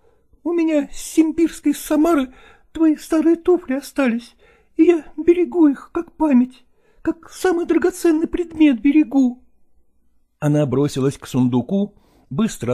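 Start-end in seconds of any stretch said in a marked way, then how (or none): 0.1-9.4 higher, fond and sentimental; sentimental actress. A narrator's reading. Nastina tells Lagorsky she kept his slippers, higher fond voice. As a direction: treasure the memory aloud.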